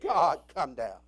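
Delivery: loud pleading cry, then slow; desperate prayer cry; crying out to God. Real, not acted. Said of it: "I say".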